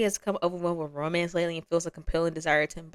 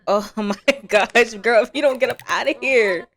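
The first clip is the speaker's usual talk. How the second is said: laughing exasperation; 3 semitones higher, 8 dB louder than usual. Real, not acted. Laughing at sim tweaking out.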